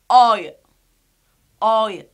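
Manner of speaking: "oy" loud, gliding to "oy-uh"; triphthong pronunciation. Shown as a demonstration. Teacher saying it is like short O, "oy" as "oy-uh". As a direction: add a short schwa to "oy". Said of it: "We say".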